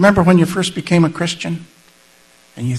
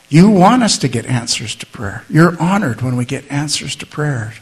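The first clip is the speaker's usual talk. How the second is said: 1 prayer. Acted. Leads the closing prayer.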